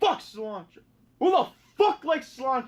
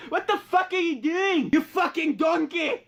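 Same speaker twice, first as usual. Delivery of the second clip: higher, put-on angry chef; Gordon Ramsay rant; 4 semitones higher than usual. Gordon Ramsay yelling at a cook, mock angry. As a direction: berate the cook like a furious chef. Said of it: "Gordon Ramsay's like".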